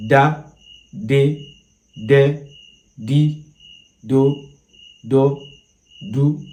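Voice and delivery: practicing tones: Da de di do pitched high and level; high tone syllables. Shown as a demonstration. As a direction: lift each syllable to a high tone. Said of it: "Now let's go on with mi".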